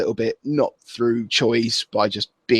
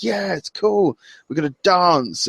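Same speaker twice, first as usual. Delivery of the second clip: excited wrestler quote; 6 semitones higher, slower than usual. Retold or imitated. Acting out the excited dancer.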